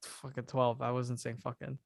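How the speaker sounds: ordinary delivery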